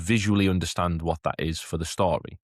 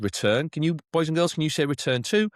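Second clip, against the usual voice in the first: put-on higher, bright classroom prompt, inviting the children to repeat; teacher to pupils, asking them to repeat the word, higher and inviting; teacher prompting class; 8 semitones higher than usual. Shown as a demonstration. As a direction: lead the class in saying return, pitched up. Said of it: "I would say out loud".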